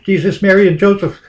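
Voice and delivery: high, loud panicked plea to pull over; mock frantic mother yelling. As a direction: retell the mother shrieking from the back seat. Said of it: "my mother's yelling".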